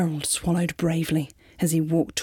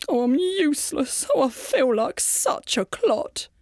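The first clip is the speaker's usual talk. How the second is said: Gerald, dejected; 7 semitones higher than usual. A narrator's reading. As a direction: sigh it out like a gloomy giraffe. Gerald's despairing inner thought.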